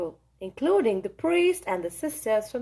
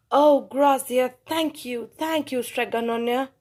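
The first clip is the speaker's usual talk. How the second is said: grateful. Acted. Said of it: "the people cried".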